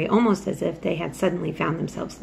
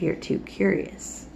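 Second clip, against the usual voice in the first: soft voice; 4 dB quieter than usual. A narrator's reading. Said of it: "dropped his voice to such a softness".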